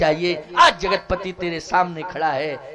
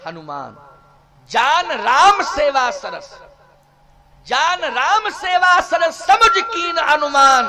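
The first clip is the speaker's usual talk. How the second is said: drawn-out, raised devotional recitation; verse recitation; 4 semitones higher, 6 dB louder than usual. Acted. Preacher recites a verse on Hanuman's service, declaimed. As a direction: declaim the couplet with ringing emphasis.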